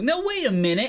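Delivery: loud, high protest; indignant beggar. Acted. Beggar keeping pace with a speeding carriage, loud indignant voice. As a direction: call after them in an affronted beggar voice. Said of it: "he gets a little indignant".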